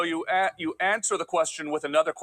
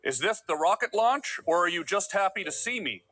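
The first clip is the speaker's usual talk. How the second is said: flirty improv line; 8 semitones higher than usual. Acted.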